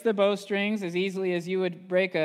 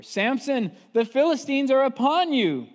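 high, louder read-out call; warning call; 9 semitones higher, 7 dB louder than usual. Retold or imitated. Delilah calling out to sleeping Samson. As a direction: ring out the warning.

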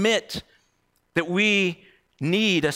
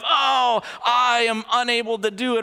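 mock despairing; 4 semitones higher than usual. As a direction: play at helpless despair, pitched up. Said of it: "a despairing kind of".

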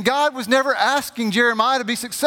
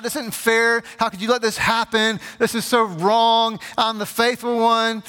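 retold protest, lightly raised voice; mild mock yelling; 3 semitones higher than usual. Preacher voices Jeremiah complaining to God, mild mock yell. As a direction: plead the grievance without really yelling. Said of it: "Jeremiah's yelling at God".

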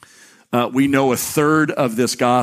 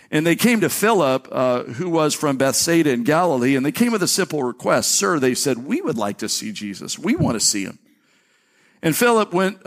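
raised, measured Bible reading voice; scripture reading. Acted. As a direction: read the passage aloud to the congregation. Reads scripture aloud.

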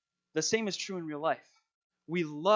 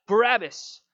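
loud, higher-pitched call from a mob; crowd's shout; 5 semitones higher, 9 dB louder than usual. A narrator's reading. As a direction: shout the name back like a crowd. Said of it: "The crowd shouted back".

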